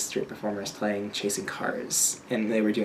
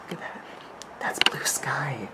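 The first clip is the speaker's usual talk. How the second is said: whispered; 3 semitones higher than usual. Real, not acted. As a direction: breathe it out in wonder. Hushed admiring of the sky.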